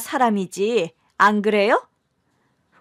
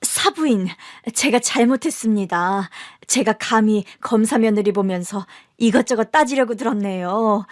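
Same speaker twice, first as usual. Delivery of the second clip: humble apology. Acted. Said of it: "제 앞에 바짝 엎드리더라고요".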